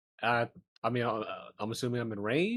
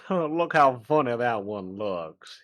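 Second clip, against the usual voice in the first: slow, casual nonchalant remark; 3 dB louder, slower than usual. Acted. Player pointing at a chicken in character, nonchalant. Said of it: "very nonchalantly point to it".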